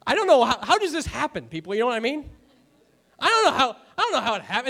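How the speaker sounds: a real amused laugh through the words; laughing at himself. Real, not acted. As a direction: chuckle helplessly at running out of time. Preacher laughs at running over time.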